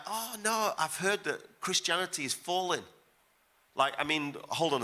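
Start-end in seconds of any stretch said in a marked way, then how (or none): 0.0-2.8 mock earnest young man, much higher; imitating the young guy. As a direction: ape the eager youngster insisting, pitched up. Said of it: "And he's like".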